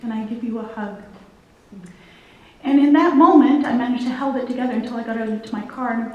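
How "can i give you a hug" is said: getting emotional. Real, not acted. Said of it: "I'm gonna get emotional here".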